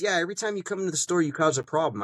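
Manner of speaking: high, quick mock employee voice. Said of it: "He goes".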